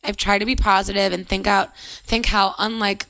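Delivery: measured read-aloud of a listener's letter. Real, not acted. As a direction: read it out clearly, phrase by phrase.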